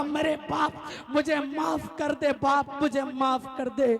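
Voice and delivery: loud, slow begging for forgiveness; pleading son. Acted. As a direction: cry out for mercy at his feet. Son begs father's forgiveness. (بیٹا باپ سے معافی مانگتا ہوا، چیخ کر)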